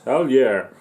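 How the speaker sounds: loud punchy cheer; hell yeah cheer. Real, not acted. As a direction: bark it out like a rock fan. Cheer after the welcome.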